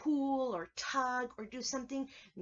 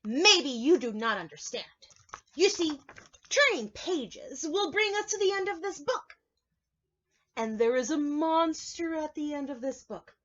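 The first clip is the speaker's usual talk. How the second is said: earnest Grover; 3 semitones higher, 5 dB louder than usual. Acted. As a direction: insist on the point like a worried muppet. Grover explaining to the reader.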